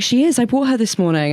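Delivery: high, matter-of-fact mum; light mum impression. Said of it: "Mum was like".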